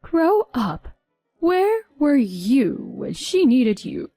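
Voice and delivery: loud, slow scolding relative; sharp rebuke. Acted. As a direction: put the husband in his place. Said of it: "a relative's response was swift".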